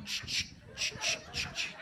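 whispered camera shutter clicks. Retold or imitated. Jeep boys photographing him, whispered camera clicks. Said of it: "they're going".

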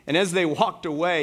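ordinary delivery

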